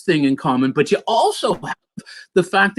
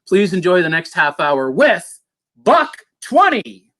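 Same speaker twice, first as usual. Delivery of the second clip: show announcer. Real, not acted. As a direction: introduce the act, building to a stretched finish. Introduces the band to audience.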